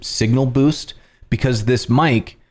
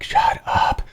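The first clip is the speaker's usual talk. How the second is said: mock annoyed partner. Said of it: "my partner's in the other room just like".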